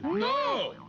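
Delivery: high, loud terrified no; panicked scream. Acted. Panics at headstand idea.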